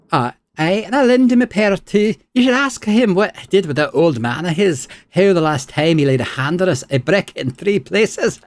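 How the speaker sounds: high, taunting spirit voice; spiteful spirit. Acted. Spirit taunts Aloth about his old man, high and spiteful. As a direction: dig up the host's secrets with relish. Isilmir voice.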